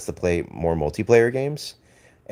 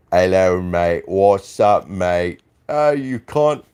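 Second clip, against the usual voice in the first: hammed-up Australian accent with louder greetings; mock Aussie accent; 4 dB louder, slower than usual. Streamer mocking an Aussie viewer in a hammed-up Australian accent. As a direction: playfully put on an Aussie voice for the viewer. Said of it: "and I'm basically Aussie".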